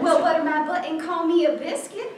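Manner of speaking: put-on southern accent. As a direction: play it Southern belle. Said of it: "she'll have a southern accent".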